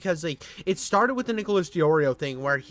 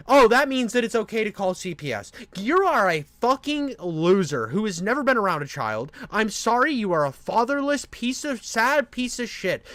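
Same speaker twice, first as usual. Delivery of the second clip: louder, heated, hammering each insult; angry rant; 2 semitones higher, 4 dB louder than usual. Real, not acted. Calling out Sleepy, a heated angry rant. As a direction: let the anger boil over.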